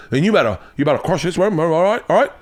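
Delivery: put-on horrible British accent. British host urging the visiting comic on, horrible mock British accent. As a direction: press them in a badly faked British accent. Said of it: "once again a horrible accent".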